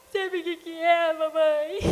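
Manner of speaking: put-on high, teary little boy's voice breaking into a sob; mother imitating her tearful son, high and teary; small crying boy. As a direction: voice the four-year-old close to tears.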